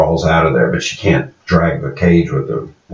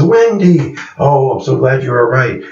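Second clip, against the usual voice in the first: much higher, gushing relief at finding her; relieved gush; 7 semitones higher than usual. Retold or imitated. Linda finds caged lemur Wendy, high relieved gush. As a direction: coo it out like finding a lost pet.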